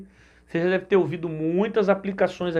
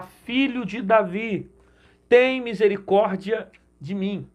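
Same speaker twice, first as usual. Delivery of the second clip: slow, stretched-out mock call; mild calling out; slower than usual. Preacher imitates the blind man calling Jesus, slow restrained call. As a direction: draw out a lightly acted plea. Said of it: "ele vai decidir chamar".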